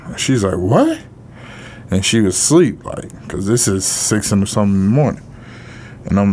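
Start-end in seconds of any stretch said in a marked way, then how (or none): 0.6-1.0 high, rising startled question; a mother's sudden disbelief, retold; startled what. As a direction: shoot the pitch up in disbelief. Retelling mother's shocked reaction.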